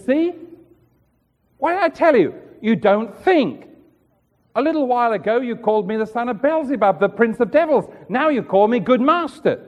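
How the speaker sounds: a mildly sarcastic retort, pitch jumping up at the start; mock Jesus's dry sarcasm, lightly voiced. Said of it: "a great deal of sarcasm in the voice of Jesus".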